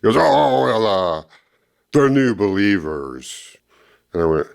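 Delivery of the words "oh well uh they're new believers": flustered opener, then slow, drawn-out words; frustrated excuse. Retold or imitated. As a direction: imitate a man groping for an excuse. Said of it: "frustrated and angry, kinda like he did before".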